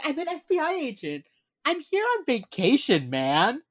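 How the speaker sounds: high, loud, laid-back cop-out voice; breezy Elle. Retold or imitated. Elle brushing off the interrogating officer, high and breezy. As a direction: toss it off like a surfer on holiday. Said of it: "That's what Elle says".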